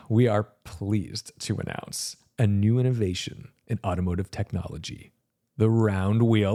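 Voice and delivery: lightly acted, measured product-launch speech; mock corporate announcer. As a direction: pause for effect like a company presenter, half in earnest.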